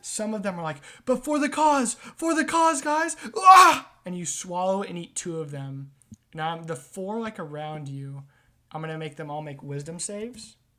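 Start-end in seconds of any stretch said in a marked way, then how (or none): 1.0-3.1 panicked scream, higher and louder. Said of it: "They're screaming and panicking".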